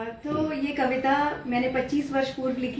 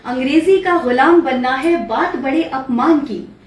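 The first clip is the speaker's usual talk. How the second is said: declaimed verse, much louder than her talk; poem recitation; 10 dB louder than usual. Acted. Poet reciting her poem on Hindi to her host, declamatory recitation. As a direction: recite it out boldly with swinging, rhythmic intonation.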